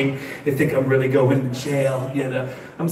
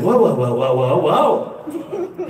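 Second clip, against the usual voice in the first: mock alarm; slower than usual. Alarm as handcuffs come out.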